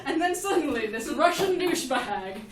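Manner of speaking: giggling through the words; words bubbling with laughter; laughing while telling. Real, not acted. Laughing at own story while telling the audience.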